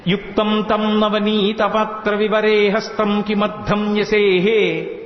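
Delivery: measured, slow Sanskrit chanting; slow verse recitation. Acted. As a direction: recite each word slowly like a shloka. (నెమ్మదిగా శ్లోక పఠనం)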